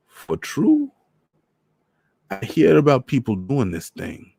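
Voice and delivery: put-on high Trinidadian old man; teasing old man from back home; Trinidad accent. Voices Mister Morris.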